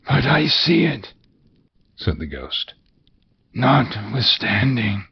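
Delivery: high ghostly tone, slowing at the end; eerie spectre; ghost's voice. Acted. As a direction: let the ghost answer calmly.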